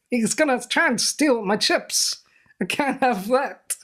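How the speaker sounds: a hint of a scheming Bond baddie; villain impression. Host keeps up the villain bit for his co-host, slowly. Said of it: "not the end of the impression".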